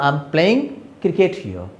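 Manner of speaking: "I am playing cricket here" run together slowly as one word. Shown as a demonstration. Teacher showing students the sentence with no comma, one flow. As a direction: read it in one smooth flow, no pauses. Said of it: "like a word".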